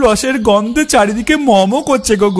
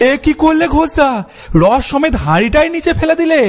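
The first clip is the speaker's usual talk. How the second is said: alarmed dismay; 4 semitones higher than usual. Acted. Friend sees the pot dropped.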